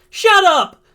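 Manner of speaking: very high, loud desperate shout; acted anguished outburst; yell. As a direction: scream at him, pleading. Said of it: "Izuku yells".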